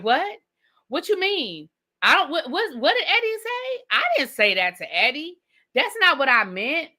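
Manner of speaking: high, flustered stammering denial. Pretend. TJ caught on speakerphone, high flustered stammer. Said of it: "for T J to be like".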